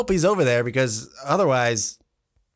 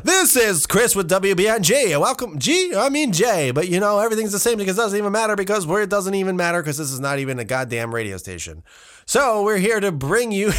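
radio voice; 3 semitones higher than usual. Pretend. Host alone filling airtime, mock radio voice. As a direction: put on a big DJ voice, then ramble on. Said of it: "I'm gonna do my radio voice".

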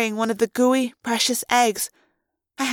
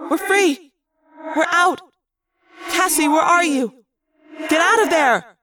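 high, urgent distant thought-voice; far-off cry; 5 semitones higher than usual. A narrator's reading. Freed friends call for Cassie, distant urgent cry. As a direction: call out to someone far away. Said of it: "I heard a far-off voice cry".

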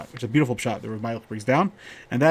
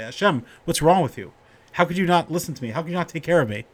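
retold aggrieved protest, pitched higher; yelling complaint; 4 semitones higher than usual. Person complaining to Hashem about being neglected, mildly indignant. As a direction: plead indignantly, a mild mock yell. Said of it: "How many times we yell".

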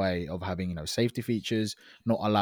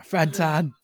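frat bro; 7 semitones higher, 4 dB louder than usual. Acted. Mock call, playful voice.

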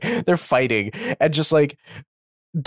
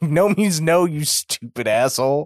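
mock angry yell; 4 semitones higher than usual. Woman beating the proposer with flowers, mock angry yell. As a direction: scold him while swinging the flowers. Retold woman whacking him.

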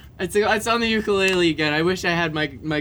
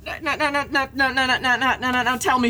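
nervous stammer; 2 semitones higher, 3 dB quieter, much faster than usual. Pretend.

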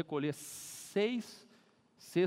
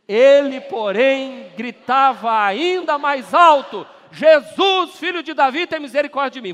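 loud group reading; 9 semitones higher, 20 dB louder than usual. Real, not acted. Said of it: "Vamos fazer assim, dessa forma".

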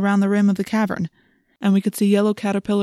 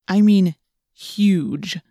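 huge drawn out slow and louder; stress on huge; 3 dB louder, much slower than usual. A narrator's reading. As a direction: lean hard on huge. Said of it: "when I say huge".

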